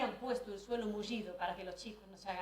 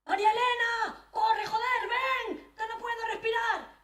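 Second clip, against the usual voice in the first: high, loud panicked yelling for help; a gasping man bellowing from his bed; desperate shout; 12 semitones higher, 7 dB louder, slower than usual. Retold or imitated. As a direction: scream her name like he can't breathe. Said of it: "comenzó a gritar".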